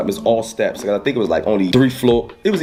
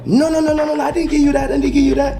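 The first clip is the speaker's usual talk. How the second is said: high, hurried protesting voice; a dealer backing off quickly; high mock voice of a protesting dealer; dealer's denial; 13 semitones higher than usual. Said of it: "he was like".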